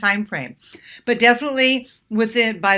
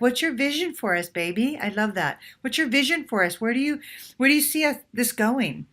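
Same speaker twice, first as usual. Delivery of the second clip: light and playful; 4 semitones higher than usual. Shown as a demonstration. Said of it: "You just smile and ask him that".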